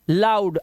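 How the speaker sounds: लाउड said with a clear आउ glide. Shown as a demonstration. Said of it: "अब ये लो नहीं है, लाउड है". (लाउड में आउ की आवाज़)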